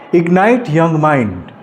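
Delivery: slow, weighty poem reading; poem recital. Acted. Speaker reciting his own poem to teenagers, slow and solemn. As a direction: recite each word slowly like a call to wake up.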